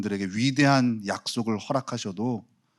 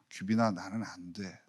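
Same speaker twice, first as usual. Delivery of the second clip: soft, deflated little whine; mock whiny defeat; 6 semitones lower, 9 dB quieter than usual. Pastor mocking his own defeatist whine. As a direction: play the hopeless one, mopey.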